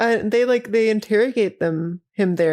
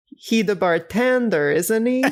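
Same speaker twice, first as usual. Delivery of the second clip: bad French accent. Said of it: "his fucking accent. offensively bad".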